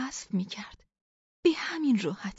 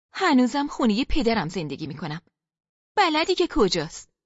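pointed parting shot; 4 dB louder than usual. Acted. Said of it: "گفتم".

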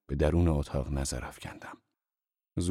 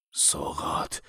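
softer, unvoiced murmur; under the breath; 5 dB quieter, much slower than usual. A narrator's reading. Zorba admits to the boss, head down, murmuring. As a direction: mumble it sheepishly under your breath. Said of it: "زیر لب گفت".

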